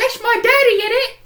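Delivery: very high, loud squeaky outburst; mock exclamation. Acting out Mike recognising his dad.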